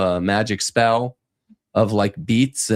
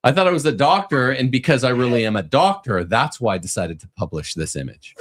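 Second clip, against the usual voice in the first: mock defensive. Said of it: "S0 echoes quote".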